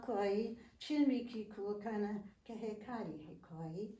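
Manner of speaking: measured, devotional verse recitation; poem recitation. Acted. Recites poem's first verse in original language.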